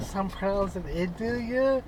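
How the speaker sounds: "Idalia" with first vowel as in "it"; pronounced ih-DAL-ya. Shown as a demonstration. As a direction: say "Idalia" opening with a short "ih" sound.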